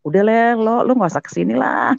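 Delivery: mildly acted brush-off; mengusir ketus. Adik mengusir dia dari rumah. (menirukan adik mengusir)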